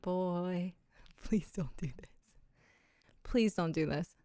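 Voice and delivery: low, soft mock pleading; hushed plea. Mom retelling her reaction to her toddler's words, hushed plea. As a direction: beg under your voice, half laughing.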